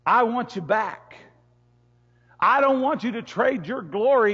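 lightly voiced divine plea, slowed; a hint of God pleading to come back; mild pleading God voice. God's voice pleading.

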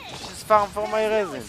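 high put-on voice, begging; mock whiny demand. Real, not acted. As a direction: whine it like a spoiled demand. Mocking demand at the game.

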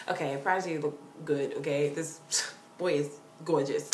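low, soft, weighty aside; earnest swooning. Real, not acted. Fan admiring a rapper's looks, quietly swooning.

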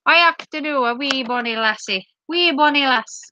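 light mock Scottish; attempted Scottish accent. Shown as a demonstration. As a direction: put on a Scottish lilt. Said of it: "Scottish is better".

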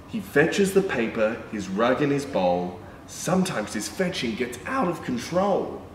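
sing-song picture book reading; reading to children. A narrator's reading. Reading a rhyming dog book to children, sing-song. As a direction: read the rhyme to little kids.

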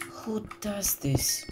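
"Who does this?" high and drawn out; high slow disbelief. Real, not acted. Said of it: "repeated high and slow".

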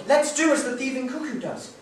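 high, lively mischievous call; gleeful cry. Acted. Hansel urging Gretel to eat the strawberries, gleeful. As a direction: egg her on with glee. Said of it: "he cried".

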